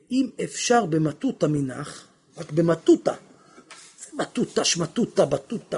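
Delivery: slow, overly formal Aramaic begging, lightly mocked; hammed-up pompous supplication; mock flowery pleading. Shown as a demonstration. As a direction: parody a stilted prayer. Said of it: "תדבר רגיל".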